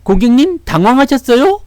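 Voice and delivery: high, loud mock phone scammer; voice-phishing caller. Scam caller pretending to alert a bank customer, mock-concerned high voice. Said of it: "보이스피싱".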